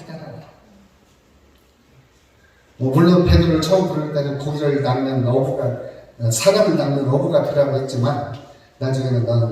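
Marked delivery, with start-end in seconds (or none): none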